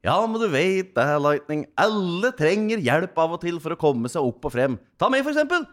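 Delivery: loud, high cartoon character voice; Taubil. Cartoon friend cheering up Lightning, loud high character voice. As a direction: belt out encouragement in a high-pitched character voice. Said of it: "der sier Taubil".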